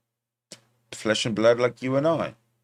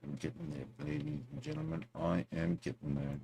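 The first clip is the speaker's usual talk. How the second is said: put-on hushed, higher French accent; quiet mock French accent, pitched up; 6 semitones higher, 14 dB quieter than usual. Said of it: "How's my French accent?".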